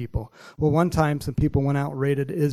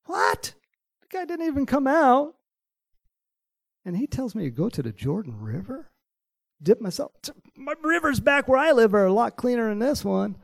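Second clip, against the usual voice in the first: angry Naaman; 10 semitones higher than usual. Acted. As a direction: rant it like an offended warrior. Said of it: "Naaman got all mad".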